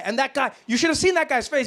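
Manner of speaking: ordinary talk, nothing marked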